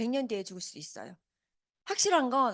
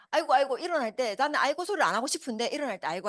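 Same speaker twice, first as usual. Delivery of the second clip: groaning aigo; 2 semitones higher, 4 dB louder than usual. Retold or imitated. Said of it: "아이고 소리를 내는 거예요".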